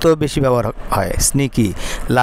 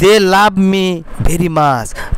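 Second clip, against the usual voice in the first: slow dictation; 3 semitones higher, much slower than usual. Shown as a demonstration. Teacher dictates model sentence.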